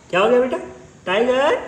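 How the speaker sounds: high cooing pet talk. Real, not acted. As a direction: coo to the cat. Talking to cat tenderly. (पालतू से तोतली प्यार भरी बात)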